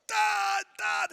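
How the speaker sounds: very high, loud call; exhausted runner calling his dad, a high loud call. Retold or imitated. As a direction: cry out to dad across the finish area. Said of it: "And I'm like".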